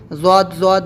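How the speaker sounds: "زواد" with a buzzing z at the front; mistaken pronunciation. Shown as a demonstration. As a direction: demonstrate the wrong z sound in "زواد". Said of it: "زال اور زا کی آواز بھی نہیں نکلنا چاہیے".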